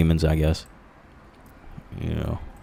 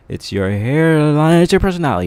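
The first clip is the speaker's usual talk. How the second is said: mock high sarcasm; 9 semitones higher, 4 dB louder than usual. Mocking people's excuses to the viewers in a high voice. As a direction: mimic the excuse in a squeaky high voice.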